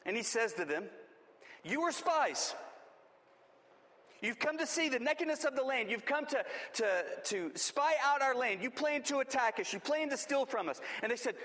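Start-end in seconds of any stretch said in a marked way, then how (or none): 1.6-10.8 Joseph accusing. Acted. Preacher voices Joseph accusing brothers.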